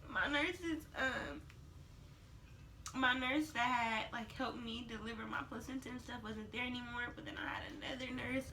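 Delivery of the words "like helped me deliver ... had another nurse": hushed whisper. Real, not acted. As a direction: drop to a whisper. Whispered aside in vlog.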